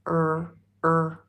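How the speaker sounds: r held long without stopping; sustained r. Shown as a demonstration. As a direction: let the air flow on a long r. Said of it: "without stopping".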